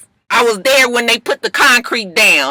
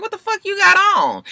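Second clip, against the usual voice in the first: mock shock; 9 semitones higher than usual. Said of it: "looking at her like".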